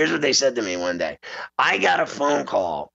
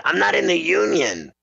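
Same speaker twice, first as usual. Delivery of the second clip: indignant protest; 5 semitones higher than usual. Retold or imitated. Retold reply, pitch jump.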